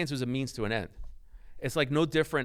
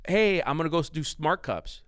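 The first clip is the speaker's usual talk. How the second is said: eager son; 4 semitones higher than usual. Retold or imitated. Acts eager son announcing news to dad.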